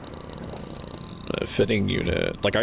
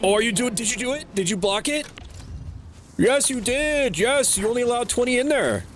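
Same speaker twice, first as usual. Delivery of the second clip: high sing-song voice. Pretend. Talking to machine in high voice.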